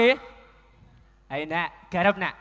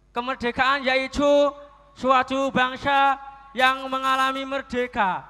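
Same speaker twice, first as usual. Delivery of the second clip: imitating Pak Ansori dictating. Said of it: "Ini ditulis ya, Nak".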